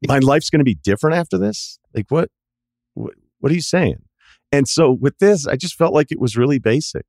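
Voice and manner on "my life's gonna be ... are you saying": high-pitched mock disbelief; incredulous. Moviegoer reacting to an overblown tagline, incredulous. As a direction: question it as if utterly baffled.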